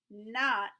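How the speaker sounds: "not" hit hard and loud; stress on not. Acted. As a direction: punch "not" like big letters. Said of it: "wrote it in big letters".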